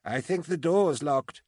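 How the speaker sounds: high, drawn-out call back. A narrator's reading. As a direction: call the answer down to someone. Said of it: "Juniper called back".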